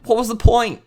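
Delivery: high, loud exasperated question; exasperated disbelief. Real, not acted. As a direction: wail it in disbelief. Still appalled at the play.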